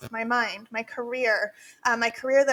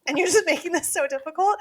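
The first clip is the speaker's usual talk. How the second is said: imitating son Brody; 5 semitones higher, 4 dB louder than usual. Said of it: "Brody has been on me".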